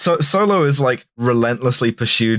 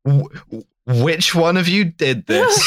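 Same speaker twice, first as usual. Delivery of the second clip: resigned; 6 semitones higher than usual. Retold or imitated. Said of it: "in the most resigned tone, imagine".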